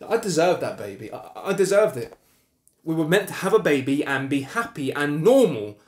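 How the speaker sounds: rising, loud insistence on what was lost; anguished protest. Acted. Husband grieving the baby he was denied, anguished. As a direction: protest it with growing force.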